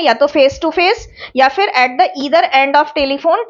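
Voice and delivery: slow, word-by-word "face to face" for note taking; slow dictation. Shown as a demonstration. Teacher spelling out the definition for students, slow. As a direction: read it out slowly for the notes.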